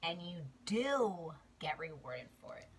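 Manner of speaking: hushed whispered promise. Real, not acted. Repeated affirmation, whispered.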